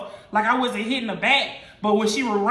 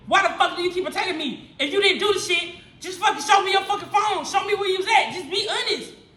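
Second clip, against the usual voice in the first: higher-pitched, mildly angry pleading; retold exasperated demand; 6 semitones higher than usual. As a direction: replay the argument, pressing for an answer. Acted quarrel, demanding answers.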